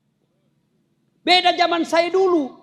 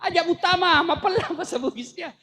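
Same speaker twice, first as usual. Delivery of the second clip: hammed-up yell, climbing higher to the end; retold warning yell, a little higher each time; mock shout; 4 semitones higher than usual. Chinese man yells a warning at the lift, mock shouting. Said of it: "dia teriak".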